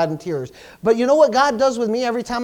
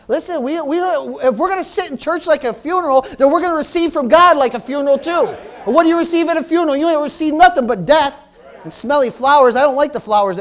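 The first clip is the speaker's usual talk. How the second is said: raised, higher-pitched preacher delivery; preaching at full force; 5 semitones higher, 4 dB louder than usual. Real, not acted. Preacher warning a congregation that sits like a funeral, raised preaching. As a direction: drive the point home in a high, raised voice.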